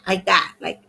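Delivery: breathy whisper, barely any voice; imitating landlord's whisper. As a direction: whisper it like a damaged throat. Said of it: "She talks like this".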